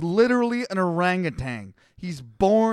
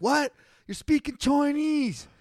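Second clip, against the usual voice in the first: mock confusion; 8 semitones higher than usual. Confused builder after languages split.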